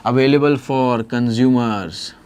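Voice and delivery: Available for consumers, stretched out very slowly; slow dictation. Shown as a demonstration. Teacher repeating the answer slowly for students. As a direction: drag every word for note-taking. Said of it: "अरे बोलो हाँ या ना?".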